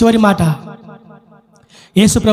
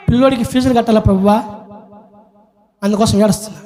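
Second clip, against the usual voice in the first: mock petitioner; much faster than usual. Mimics petty tearful prayer requests.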